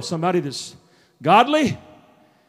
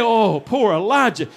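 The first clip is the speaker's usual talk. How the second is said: drawn-out sympathetic "oh, poor"; lightly hammed-up commiseration; mock pity. Preacher voicing pity God never gave Elijah, mock pity. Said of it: "God didn't join the pity party".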